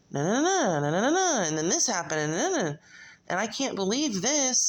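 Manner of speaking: mock breathless drama, pitch swooping high on each phrase; hammed-up imitation of never-ending dramatic storytelling; super dramatic. Vlog viewer mimicking a vlogger's constant drama, super dramatic. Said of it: "is super dramatic".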